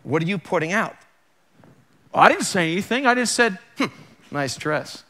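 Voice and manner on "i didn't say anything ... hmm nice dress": sarcastic quote. Retold or imitated. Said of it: "do that to".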